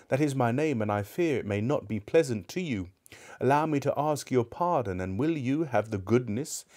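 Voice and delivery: put-on an old man asking pardon; humble Scrooge.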